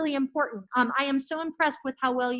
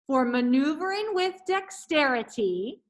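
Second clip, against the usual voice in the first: careful articulation. Shown as a demonstration. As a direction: enunciate every syllable clearly. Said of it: "So repeat after me".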